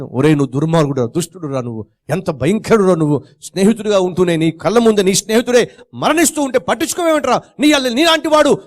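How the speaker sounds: rising angry scolding, ending high. Acted. Friends cursing the swimmer for doing nothing, rising anger. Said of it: "తిడుతున్నారు".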